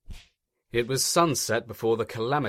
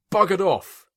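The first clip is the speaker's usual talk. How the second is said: grumbling; 9 semitones higher, 8 dB louder than usual. A narrator's reading. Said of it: "grumbled Spamcan".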